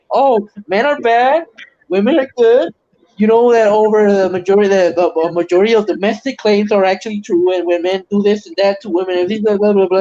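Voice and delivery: lightly voiced smug professor mocking men. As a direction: parrot the professor smugly.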